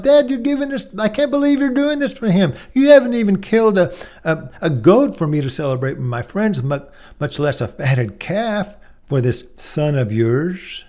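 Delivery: put-on older brother complaining to his father, resentful; bitter complaint. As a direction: complain to dad, stung and jealous.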